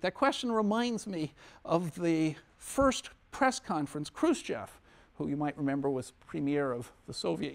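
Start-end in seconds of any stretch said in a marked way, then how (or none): 0.0-4.8 Israeli accent attempt. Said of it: "I can't do his Israeli accent".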